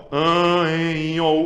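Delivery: An, en said through the nose; nasal vowel demo. Shown as a demonstration. Teacher demonstrating nasal vowels to class. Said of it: "vogais nasais".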